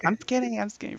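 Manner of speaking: high-pitched imitation of a girl giving in; mock girl's surrender. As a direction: beg for release in a put-on high voice. Squeezed girl gives in, retold.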